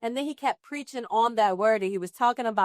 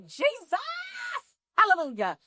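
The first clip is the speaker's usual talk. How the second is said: joyful exclaim; 9 semitones higher than usual. Retold or imitated. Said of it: "And I'm like".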